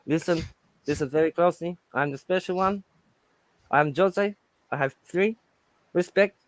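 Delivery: lightly voiced football manager impression; measured phrases with weighty pauses; self-important accented manager, lightly done; Jose. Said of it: "I just love Jose. Like, he's a special one".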